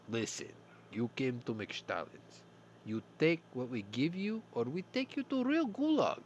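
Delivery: mock-threatening fake Russian, rising high at the end; menacing bad Russian accent. Soviet cashier threatens the customer with the gulag in a bad Russian accent. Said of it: "a really bad Russian accent".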